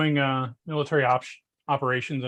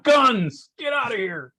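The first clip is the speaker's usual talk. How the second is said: high, raised-voice cry of alarm; mock shout; 8 semitones higher, 3 dB louder, slower than usual. Co-host acting out startled office workers as ninjas burst in, mock shouting. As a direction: yell it out in mock panic. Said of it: "And just shout".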